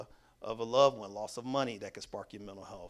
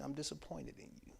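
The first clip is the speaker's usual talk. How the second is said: disappointed; 3 semitones higher, 10 dB quieter than usual. Retold or imitated. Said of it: "I don't respond that I'm mad at you. I say".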